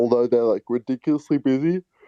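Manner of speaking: speaking through a yawn. Talking about a busy founder, yawning mid-sentence. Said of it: "sorry, I'm yawning".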